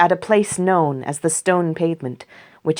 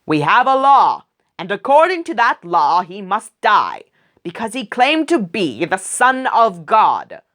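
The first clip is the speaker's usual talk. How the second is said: firmly insistent, a touch louder; 4 semitones higher, 4 dB louder than usual. Acted. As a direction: press the point hard. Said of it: "The Jewish leaders insisted".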